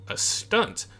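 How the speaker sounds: high breathless whispered reply; odd stranger whispering his answer. Acted. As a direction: hiss the answer like a secret.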